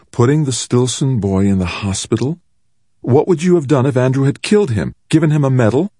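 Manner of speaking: high, indignant mother's voice; a mother appalled at what they praise; outraged mother. Acted.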